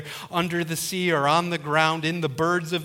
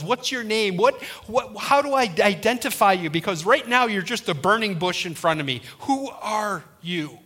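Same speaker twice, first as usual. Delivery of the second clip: raised, stumbling questions slowing into "Who are you"; mildly overwhelmed, higher-pitched questioning; 4 semitones higher than usual. Acted. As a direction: stammer out the questions as a bewildered Moses. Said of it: "Moses was overwhelmed".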